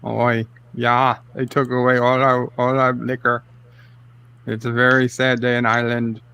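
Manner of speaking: mock-mournful Irish local; put-on Irish accent. Host laments closed pubs as an Irishman, mock Irish accent. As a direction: lament it in a light fake Irish brogue. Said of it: "give him the full Irish".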